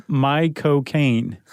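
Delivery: drawn-out, deliberate attempt at a Cockney accent; slow, halting stab at a Cockney accent; Michael Caine impression. Shown as a demonstration. Co-host attempts a famous British actor's accent on request, Cockney impression. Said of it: "Michael Caine in the correct accent".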